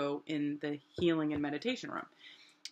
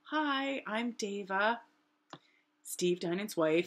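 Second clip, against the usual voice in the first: calm; 2 semitones higher, 4 dB quieter, slower than usual. Retold or imitated. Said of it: "calmly, you know, not manic".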